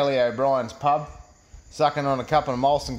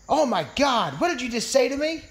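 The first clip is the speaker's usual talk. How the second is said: high-pitched mock shock; imitated woman's scandalized reply; offended woman; 10 semitones higher than usual. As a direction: act an appalled woman, voice shooting up. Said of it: "She says".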